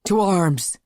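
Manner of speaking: loud high call to arms; yelling. Acted. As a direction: shout the alarm. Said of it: "the church guard yelled".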